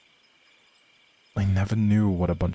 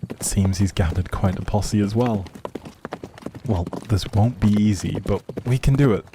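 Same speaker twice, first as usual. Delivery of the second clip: ordinary delivery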